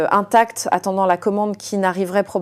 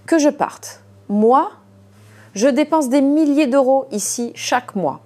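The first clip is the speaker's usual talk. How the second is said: higher, disbelieving outburst; hysterical; 6 semitones higher than usual. A narrator's reading. Diner told to leave, hysterical disbelief. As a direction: sputter in outraged disbelief. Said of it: "un rire hystérique".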